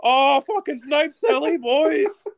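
put-on high, loud Canadian hockey-bro accent; Letterkenny hockey accent. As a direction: shout it like a Canadian hockey player. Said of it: "that weird fucking hockey s-, accent".

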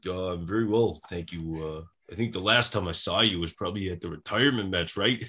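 understated, polite mock phone voice; Bret Hart impression. Wrestler making small talk with colleague's wife, understated impression. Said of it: "fairly decent Bret impression".

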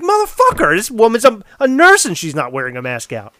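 high, loud burst of disbelief; shocked inner curse; mock outrage. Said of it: "I was like".

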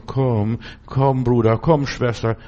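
luring devil voice. Retold or imitated. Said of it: "die Menschen zu verführen, zu locken".

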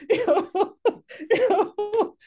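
high, loud laughing through the words; real laughter spilling over. Real, not acted. Laughing after saying bye to old job.

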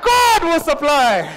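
"God" stretched high and loud; stress on GOD. Shown as a demonstration. Preacher showing congregation the response, loud drawn-out stress on "God". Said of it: "put emphasis on that God part".

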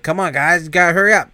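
car thieves urging each other, urgent; urgent hurry. Retold or imitated. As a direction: rush them while the alarm blares. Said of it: "they're like".

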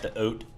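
"oat" said with an oh sound in place of ow, Michigan style. Shown as a demonstration. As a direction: say "oat" the northern way, a rounded oh. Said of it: "instead of out kind of thing".

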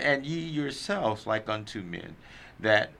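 slow, measured Bible reading; scripture reading. Acted. Church member reading Luke twelve to the group, scripture reading. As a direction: read the verse out deliberately, word by word.

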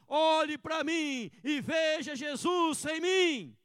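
slow, loud shouted declaration; bold shout. Retold or imitated. Pastor showing what the true Christian says, shouting. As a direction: proclaim it boldly. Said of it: "O cristão fala".

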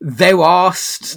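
lightly mocking faux-Shakespearean voice. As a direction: put on a bit of loud fake Shakespearean. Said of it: "some kind of faux Shakespearean".

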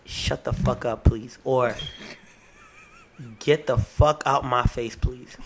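curse, then a dry tacked-on "please"; mock polite cussing. Shown as a demonstration. Asked for an example by cohost, mock polite cussing. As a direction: swear flatly, end with a sweet please. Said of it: "give me an example of cuss politely".

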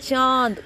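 चांद with a long vowel through throat and nose; nasalised vowel. Shown as a demonstration. Teacher shows anunasik, चांद with a long nasal vowel. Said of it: "गले और नाक दोनों से".

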